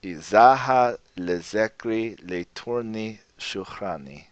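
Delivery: slow, soft, careful Lojban reading. Shown as a demonstration. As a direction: read the poem slowly, word by word. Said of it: "If I speak a little slowly".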